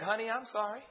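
imitating a soft, heartfelt apology; gently voiced, meant apology to a spouse; sincere apology. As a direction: apologize softly as if you mean it. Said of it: "you know she meant it?".

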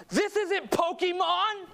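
high, slow scornful retort; angry yell. Retold or imitated. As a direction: snap it back at him with contempt. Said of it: "she just yells at me".

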